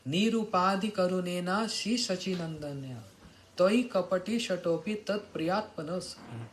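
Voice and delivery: measured scriptural verse recitation; intoned Sanskrit verse. Acted. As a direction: recite the holy verse in sustained, even phrases.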